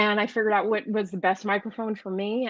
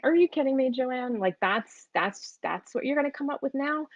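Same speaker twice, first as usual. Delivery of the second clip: higher-pitched, mock-exasperated disbelief; incredulous friend; 5 semitones higher than usual. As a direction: quote the friend, baffled by the excuse. Friend disbelieves her excuse, shaking head.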